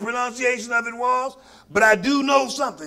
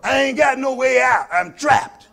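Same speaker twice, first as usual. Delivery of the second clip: fiery preaching; 3 semitones higher than usual. Acted. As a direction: preach it, rising and pounding. Preaching at full force.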